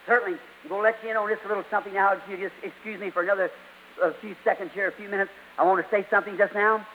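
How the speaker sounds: dropped to a near-murmur, confiding; hushed aside. Real, not acted.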